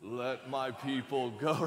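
slow, drawn-out deep voice, played for fun; deep Moses voice. Preacher playing Moses before Pharaoh for laughs, deep voice. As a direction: put on a slow, mock-grand Moses. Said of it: "In a real deep voice".

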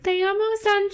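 high, playful mock-sweet Spanish sign-off; imitated lovestruck girlfriend. Girlfriend hanging up on Sanchez, imitated high lovey voice. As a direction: coo it high like a smitten girlfriend. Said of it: "when they hang up, she's like".

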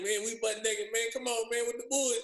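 high-pitched, retold protest; mock pleading. Player retells talking down an angry teammate in the shower, mock pleading.

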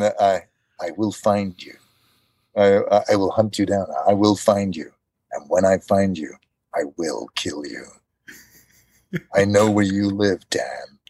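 hint of a cold Taken threat; Liam Neeson in Taken. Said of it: "actually Liam Neeson from Taken".

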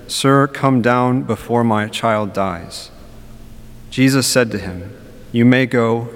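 solemn liturgical reading voice; Gospel reading. Acted. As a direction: proclaim the Gospel measured and steady.

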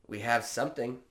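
put-on a light, understated Indian accent; barely-there Indian accent, quick and matter-of-fact. Restaurant staff answering a spice request, in a faint Indian accent. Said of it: "I'm not gonna do the accent anymore".

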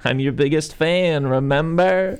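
high, slow, rising sing-song; put-on fan voice climbing high; obsessed fan. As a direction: remind him with creepy sweetness.

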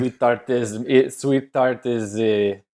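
lightly put-on Italian accent; hint of a mock Italian mobster. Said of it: "sounds weirdly like you're doing an Italian impression".

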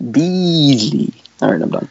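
Beasley said in a light robot voice; a lightly voiced robot saying Beasley. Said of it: "the robot says it exactly like that every time".

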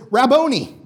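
a blind man's loud, high cry of "Rabboni"; shouted Rabboni. Retold or imitated. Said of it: "he goes up and he says".

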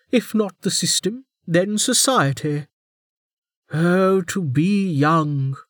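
high, slow nostalgic sigh; amused by his youth; wry warden. A narrator's reading. Warden voiced, wistful.

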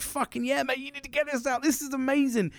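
high-pitched, thrilled urging; retold excitement. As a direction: gush to a mate as if reliving it. Retelling his excitement to mate.

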